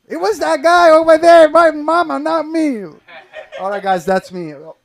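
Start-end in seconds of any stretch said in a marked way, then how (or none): 0.1-2.8 put-on high, loud child's pleading voice; mock baby voice. Baby who can talk blaming him, childish. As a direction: whine like a toddler blaming someone. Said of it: "your cover's blown".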